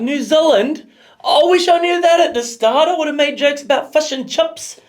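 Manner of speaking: bad New Zealand accent, high and loud. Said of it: "That's a bad New Zealand accent".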